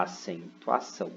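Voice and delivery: "acentuação" split into its syllables. Shown as a demonstration. Teacher counting four syllables aloud, "acentuação" said syllable by syllable. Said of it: "São quatro sílabas".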